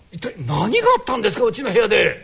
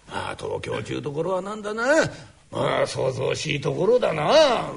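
put-on old father voice; 8 semitones lower than usual. Father figure speaks.

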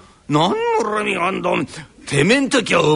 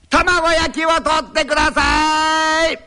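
higher, louder and drawn out, so the whole park hears; loud slow call; 7 semitones higher, 3 dB louder, slower than usual. Acted. Tenant hams up asking the landlord for omelette, loud and slow. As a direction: call it out slowly, making a show of it. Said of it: "お前が今大きな声で「卵焼き」と言ったらね".

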